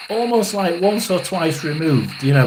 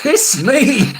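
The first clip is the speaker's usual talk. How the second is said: higher and louder, calling out; imitated call; 6 semitones higher, 5 dB louder, much slower than usual. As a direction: echo the voice calling It's me. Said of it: "it's like".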